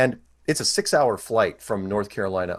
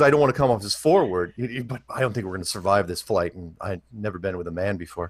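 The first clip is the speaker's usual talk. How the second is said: mock seductive seatmate. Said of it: "No, that's not how it went".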